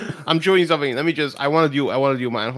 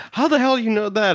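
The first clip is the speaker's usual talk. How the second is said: surprised; 8 semitones higher than usual. Retold or imitated. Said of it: "It's like".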